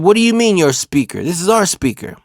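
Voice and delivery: high, loud incredulous retort; retold heated objection; indignant challenge. Disputes whose speaker it is.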